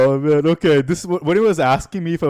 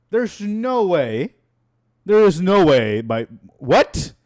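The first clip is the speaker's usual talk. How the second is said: incredulous; 3 semitones higher, 5 dB louder, much slower than usual. Real, not acted. Disbelief at own old voice.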